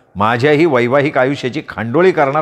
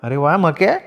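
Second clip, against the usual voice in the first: scolding wife; 3 semitones higher than usual. Acted. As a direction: tell off a clumsy husband. Wife sarcastic.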